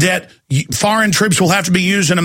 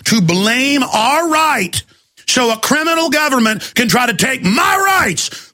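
slow, then breaking into a shout; outraged shout; 5 semitones higher, slower than usual. Real, not acted. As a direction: drag out "our right" then explode. Escalating outrage about gun rights.

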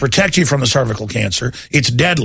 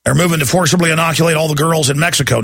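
ordinary talk

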